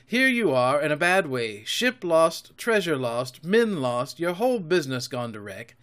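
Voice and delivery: mounting boast with punched emphasis; excited defiance. A narrator's reading. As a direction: throw it proudly in the pirates' teeth. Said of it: "by this time I was quite excited".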